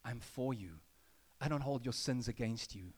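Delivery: low, gentle reassurance; Jesus' voice. Retold or imitated. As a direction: speak tenderly over the listener.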